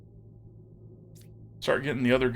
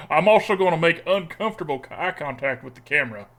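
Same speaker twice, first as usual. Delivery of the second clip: put-on southern accent. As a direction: chat away in a put-on southern twang. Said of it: "sleeve in the accent's extra tough".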